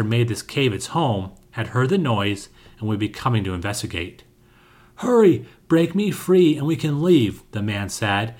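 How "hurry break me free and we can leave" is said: friendly. A narrator's reading. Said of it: "his tone suddenly changing to friendly".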